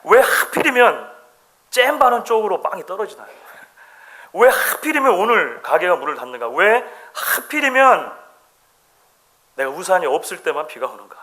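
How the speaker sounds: hammed-up why-me lament, dragging out the first words; exasperated complaint. Preacher mimicking everyday grumbling at bad luck, exasperated. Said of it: "우리는 이 이야기를 합니다".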